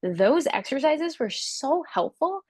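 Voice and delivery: gushing client, pitched well up; bubbling over with thanks, high and eager; excited grateful client. Retold or imitated. Client gushing to her instructor, high excited voice. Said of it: "they're gonna say".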